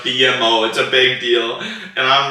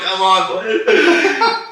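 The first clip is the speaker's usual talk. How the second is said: slow, laughing come on; laughing self-encouragement; 9 semitones higher, much slower than usual. Retold or imitated. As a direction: egg yourself on, laughing. Urging his cramped legs.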